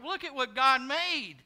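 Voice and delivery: loud, drawn-out mock exclamation; proud boast. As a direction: sound off proudly, stretching the last word. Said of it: "They come out and they go".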